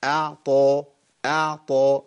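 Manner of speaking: أعطى with clear ع, then strong ط; measured demonstration of أعطى; easy clean articulation. Shown as a demonstration. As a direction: release a heavy ط cleanly in أعطى. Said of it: "الموضوع سهل إزاي".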